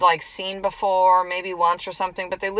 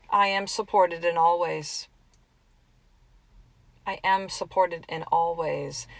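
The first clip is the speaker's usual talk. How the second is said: calm affirmation. Shown as a demonstration. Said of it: "just this affirmation today".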